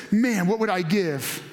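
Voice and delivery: a hint of a tired king daydreaming; wistful longing. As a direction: muse aloud like remembering boyhood. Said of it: "dreaming and wishing".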